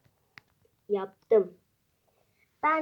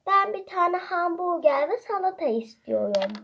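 put-on child voice; 5 semitones higher than usual. Child ordering food.

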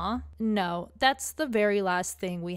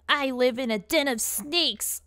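put-on high-pitched goth girl; 4 semitones higher, 3 dB louder, slower than usual. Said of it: "a high-pitched voice suits the little goth girl".

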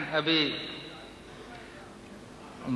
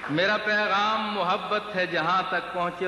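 lilting Urdu verse delivery; poetry recitation; 5 semitones higher than usual. Acted. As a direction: recite the couplet to a listening crowd. Repeats closing verse line.

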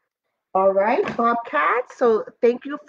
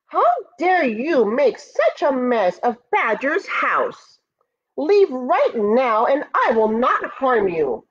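higher, mock-brave little ant cry; tiny ant shouting; 5 semitones higher than usual. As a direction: puff up like a tiny hero. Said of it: "shouted as loud as he could".

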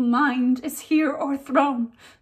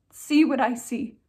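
tragic heroine sorrow; 2 semitones higher than usual. Acted. Ophelia's grief speech, performed.

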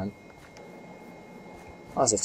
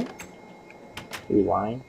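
slow mock interrogation; 8 dB quieter, much slower than usual.

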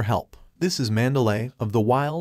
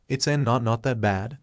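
through clenched teeth. Acted. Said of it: "said through clenched teeth".

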